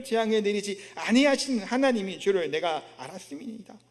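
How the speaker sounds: steady recited scripture; formal Bible recitation; scripture reading. Acted. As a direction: read the verse out in an even chant-like flow. Reads scripture aloud.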